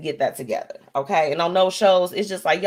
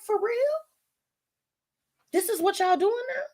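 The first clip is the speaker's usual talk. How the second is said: incredulous disbelief. Retold or imitated. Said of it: "I'm like".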